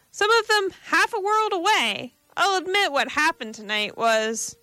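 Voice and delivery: fierce undertone. A narrator's reading. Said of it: "demanded Silvers in a fierce undertone".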